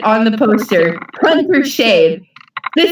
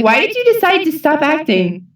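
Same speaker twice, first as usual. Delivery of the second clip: lightly imitated, higher-pitched interviewer; 5 semitones higher than usual. People interviewing him about acting, lightly imitated. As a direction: put on an inquiring interviewer's lift. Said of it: "people interview him, be like".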